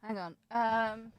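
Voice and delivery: distant, far from the mic; calling out from across the room; off microphone. Real, not acted. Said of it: "just being off the microphone and just yelling".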